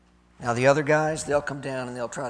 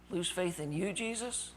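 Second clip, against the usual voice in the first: rising, incredulous question on Jesus; soft but climbing high in disbelief; disbelieving echo; 4 semitones higher, 9 dB quieter than usual. Acted. Thomas repeats Jesus's words back in hushed disbelief.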